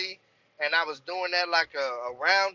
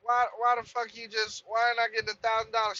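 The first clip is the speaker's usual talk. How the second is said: retold anger; 6 semitones higher than usual. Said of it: "I called her back and I'm like".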